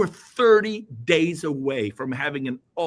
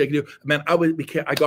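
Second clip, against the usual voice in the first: ordinary talk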